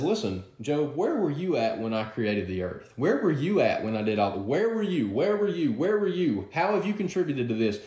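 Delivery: God rebuking. Acted. God rebukes Job, repeating.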